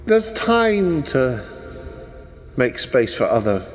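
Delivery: lightly posh, amused NPC voice; a polite, mock-apologetic posh gent. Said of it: "He does that posh voice so well".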